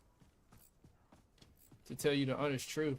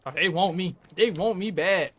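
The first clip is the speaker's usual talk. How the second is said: excited; 6 dB louder than usual. Real, not acted. Enemies focusing fire on him.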